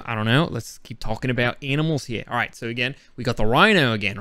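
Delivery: slipping, lightly put-on Australian accent. Vlogger talking viewers through rhinos and hippos, Australian accent. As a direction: try to hold on to a mock Australian accent. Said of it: "Let me try to get it back".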